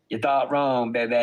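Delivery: imitated catchphrase, lightly put on; a hint of impression on "baby". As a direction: repeat it as a mocking quote of someone else. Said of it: "As P H A I would say".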